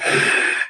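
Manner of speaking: a hard pushed-out breath; forced push exhale. Shown as a demonstration. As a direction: blow the air out with force. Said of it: "what I mean is like this".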